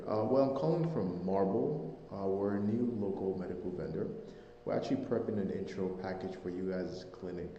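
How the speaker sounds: muffled voice, like a hand over the mouth. Real, not acted. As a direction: speak through a covered mouth. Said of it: "Sorry, you're a little muffled".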